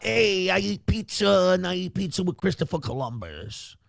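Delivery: lightly voiced dumb Italian; hint of a dumb Italian guy; Italian-American accent. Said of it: "he's not".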